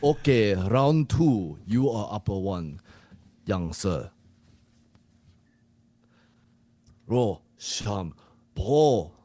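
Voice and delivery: lightly voiced Japanese coach. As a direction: referee the round with a put-on Japanese accent. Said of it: "you to be the Japanese coach".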